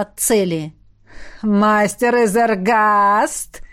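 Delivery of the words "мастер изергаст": smirking. A narrator's reading. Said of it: "ухмыльнулся тот".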